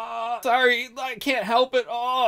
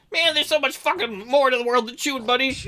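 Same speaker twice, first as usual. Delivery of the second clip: higher voice of the dog's owner; owner's voice; 4 semitones higher than usual. Acted. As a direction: read it as the man talking to his dog, higher. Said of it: "I think that's me".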